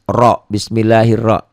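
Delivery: "Ro" heavy and rounded, as in "Bismillahirrahmanirrahim"; thick Ro. Shown as a demonstration. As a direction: hit a full, thick "Ro" and stop on it. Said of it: "ini ro-nya dibaca tebal".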